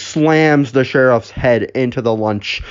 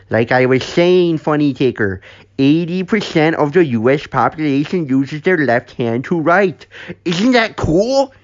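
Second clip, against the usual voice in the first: chatty trivia-spouting character; 5 semitones higher than usual. Acted. Jizzle telling trivia over breakfast, chatty. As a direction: share a fun fact in a silly raised voice.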